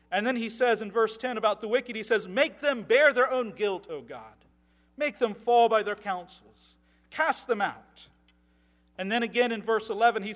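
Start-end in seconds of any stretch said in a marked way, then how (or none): 2.3-8.1 proclaimed plea. Acted. Reads psalm aloud.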